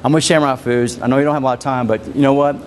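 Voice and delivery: calm respectful pitch. Shown as a demonstration. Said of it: "if I want to say".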